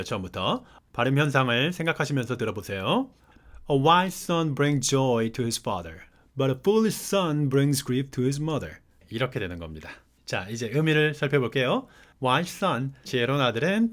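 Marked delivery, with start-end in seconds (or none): 3.7-8.8 verse reread slowly with every sound linked; slow linked reading. Shown as a demonstration. Teacher rereading the verse to show linked sounds. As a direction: read it again slowly for learners to hear the links. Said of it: "제가 다시 한번 읽어볼게요".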